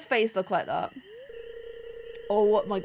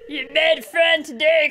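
put-on cartoon bear voice; hilarious bear; 3 semitones higher, 6 dB louder than usual. Bear to the human it just met, comical bear voice. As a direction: comical bear making a new pal. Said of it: "That's how bears sound".

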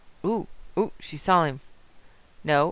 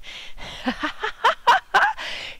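long, squealing laughing fit; high-pitched cackle; 4 dB louder than usual. Real, not acted. Player laughing at the perfect picture, squealing cackle.

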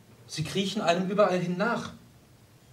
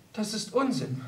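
softer, gently dismissing his worry; smiling; 3 semitones higher, 6 dB quieter than usual. Acted. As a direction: soothe him through a slight smile. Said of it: "sagte sie lächelnd".

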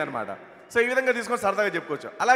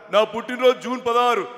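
Hanumantha Rao impression; 4 dB louder than usual. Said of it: "Hanumantharao గారి bit".

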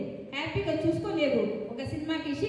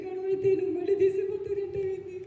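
shouting. Acted. Wife shouts her protest at Yama so everyone wakes. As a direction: yell it out to wake everyone. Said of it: "గట్టిగా అరువు".

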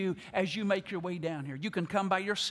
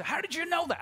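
mock surprise; 10 semitones higher than usual. Imagined listener caught off guard.

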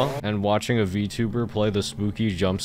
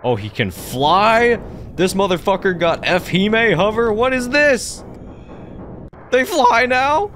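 shocked; 11 semitones higher, 6 dB louder than usual. Real, not acted. Startled by a flying monster.

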